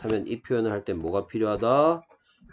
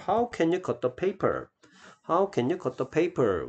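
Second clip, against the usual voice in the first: very slow, higher, every word spelled out; slow model reading; 8 semitones higher, much slower than usual. Shown as a demonstration. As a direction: read it slowly for students to copy. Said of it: "teacher models the question". (아주 느리게 높여서 시범 읽기)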